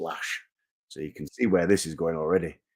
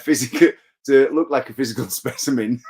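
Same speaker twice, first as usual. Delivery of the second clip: laughing; 5 semitones higher, 4 dB louder than usual. Real, not acted. Laughing at own joke.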